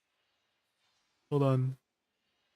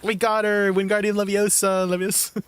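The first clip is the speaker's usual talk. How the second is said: louder triumphant shout of the spell; cheering over a kill in the game, louder and gleeful; gleeful gaming cheer; 4 semitones higher, 4 dB louder than usual. Retold or imitated. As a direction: yell Wingardium Leviosa like you just got the kill. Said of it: "I'm always like".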